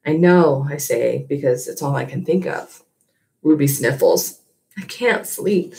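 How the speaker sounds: steady storytelling read to a class; story narration. A narrator's reading. Teacher reading the novel aloud to her class, gentle storytelling. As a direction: read it like a chapter to students.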